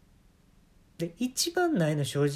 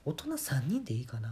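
whispered quote; 2 semitones lower, 8 dB quieter than usual. Retold or imitated. Retelling girlfriend's request at ticket desk.

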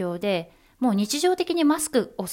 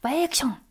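"バイアクション" said higher as a sneeze; corrected sneeze "バイアクション"; corrected mock sneeze; 6 semitones higher, much faster than usual. Shown as a demonstration. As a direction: redo the sneeze "バイアクション" with more lift. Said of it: "あ、逆か".

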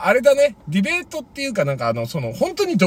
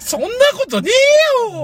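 shouted retort. Pretend. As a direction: yell it back in protest. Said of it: "そういうのを目指したいなって言った時に".

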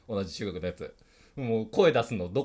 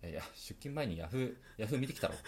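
mock whispered quip; 3 semitones lower, 9 dB quieter than usual. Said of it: "小声で？".

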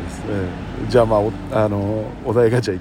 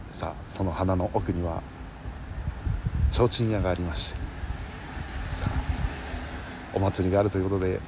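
live commentary; 5 semitones lower, 8 dB quieter than usual. Shown as a demonstration. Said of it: "実況ってこんな感じだっけ？".

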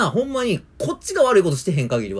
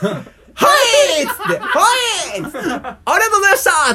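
bright, laughing, much higher and louder; gleeful laughing farewell; 7 dB louder than usual. Retold or imitated. Clerk happily seeing off the rude old man, laughing. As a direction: send him off delighted, laughing. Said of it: "ものすごい笑顔で送り出した".

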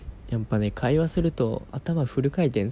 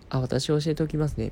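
polite work voice; 3 semitones higher than usual. Retold or imitated. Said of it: "みたいな".

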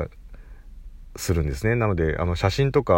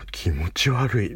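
disgusted reaction; 3 semitones higher, much slower than usual. Retold or imitated. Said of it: "みたいな".

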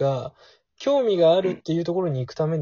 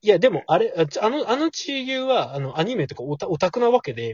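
imitating the guy; 3 semitones higher than usual. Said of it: "みたいな".

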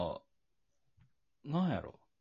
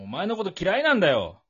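mock tearful line; 6 semitones higher, 5 dB louder than usual. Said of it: "泣きながら".

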